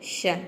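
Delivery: शन said slowly as one syllable 'shun'; slow shun sound. Shown as a demonstration. Teacher shows students the tion ending, slow 'shun'. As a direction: draw out शन as a single 'shun'. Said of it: "आईओएन का एक साथ हम pronounce".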